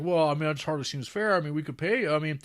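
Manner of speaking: a hint of a shy offer; humble settler.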